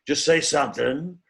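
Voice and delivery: lightly voiced emphatic film actor; Al Pacino. Impressionist showing how to do an actor, emphatic impression. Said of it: "how about, um, Al Pacino?".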